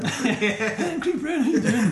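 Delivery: high, loud Scottish impression; hammed-up Scottish greeting through laughter; Craig Brown. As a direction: belt out a comic Scottish caricature. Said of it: "You're Craig impressions better".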